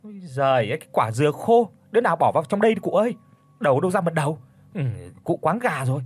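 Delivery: put-on teasing, scoffing at the old man; mocking. Bấy mocks old Chánh over the coconut, teasing. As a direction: make fun of his fright, brushing it off. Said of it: "nói cái giọng giễu cợt".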